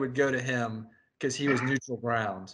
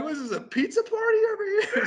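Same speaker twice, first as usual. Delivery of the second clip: high mock incredulous voice; faster than usual. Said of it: "And I'm like".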